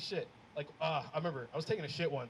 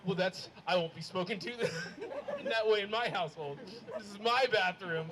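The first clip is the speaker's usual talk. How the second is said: offended dad; 3 dB louder than usual. Retold or imitated. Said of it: "he gets upset at me".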